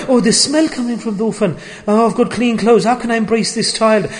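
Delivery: mocking squeamish voice with a laugh; mock disgust. Preacher mocking a squeamish believer, mock disgusted. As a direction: sneer at the orphan, half laughing. Mocking someone shunning an orphan.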